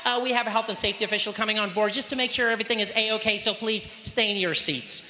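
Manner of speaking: polite flight attendant asking everyone to sit; air hostess announcement. Retold or imitated. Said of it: "She's like".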